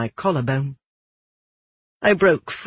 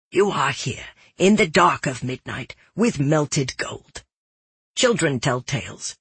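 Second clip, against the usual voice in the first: lightly voiced, measured cautious jeweler; wary jeweler. Jeweler warns the girl about secrets at midnight, guarded. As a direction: lecture in a slightly hushed, secretive way.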